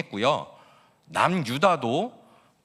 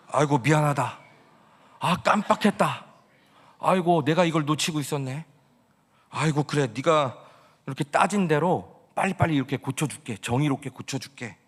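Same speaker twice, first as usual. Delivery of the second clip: hammed-up flustered apology, higher; mock flustered apology; 3 semitones higher than usual. God hurriedly apologizing to Habakkuk, hammed-up and flustered. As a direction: play God as a comically sorry friend. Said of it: "이렇게 말씀하신 것이 아니라".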